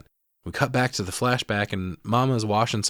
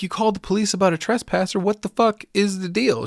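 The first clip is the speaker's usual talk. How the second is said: indignant daughter; 10 semitones higher than usual. Retold or imitated. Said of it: "she's like".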